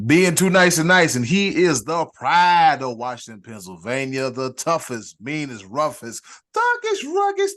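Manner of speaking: loud, hyped-up ring announcer; hype announcer build. Acted. Podcast host hyping co-host Scotty D, loud ring announcer. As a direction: pump up the crowd for the next guest.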